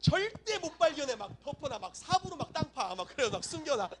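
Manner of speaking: high, hammed-up gleeful scheming; over-zealous treasure hider. Acting adult over-hiding children's treasure.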